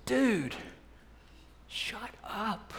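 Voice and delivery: put-on hushed rebuke to the chatty kid; very quiet. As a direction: lean in and say it under the breath. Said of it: "I very quietly leaned over and said".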